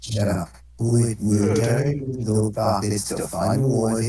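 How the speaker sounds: voice changer. Pretend. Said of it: "voice changer for Donald Trump".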